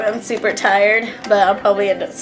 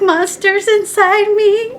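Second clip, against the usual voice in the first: laughing quote; 11 semitones higher, slower than usual. Retold or imitated. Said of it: "They're like".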